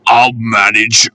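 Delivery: wheezy and out of breath; wheezing. Acted. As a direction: wheeze it out, slow. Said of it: "he wheezed".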